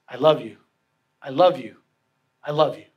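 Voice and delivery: low, gentle declaration of love; tender refrain. Retold or imitated. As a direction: repeat it steadily, like a husband's written vow. Reads husband's loving note aloud.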